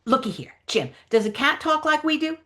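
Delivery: lightly voiced character making a case; Huck Finn. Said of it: "read the Huck Finn lines".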